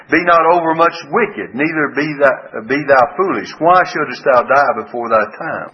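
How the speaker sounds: scripture reading. Shown as a demonstration. Preacher first reading the verse aloud, proclaiming.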